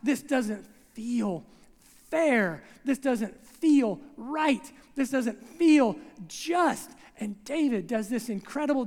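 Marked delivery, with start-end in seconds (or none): 0.0-6.9 slow, heartfelt plea; mildly voiced lament to God; earnest prayer. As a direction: pour out a complaint to God. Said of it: "He goes to God and he says".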